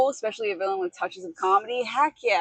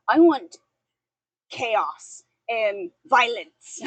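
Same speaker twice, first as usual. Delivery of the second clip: giggly sinister sing-song; 5 dB louder, much slower than usual. Pretend. Villain wish after role question.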